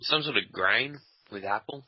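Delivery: talking while eating; words round a bite of dessert; mouth full. Real, not acted. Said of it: "Are you eating?".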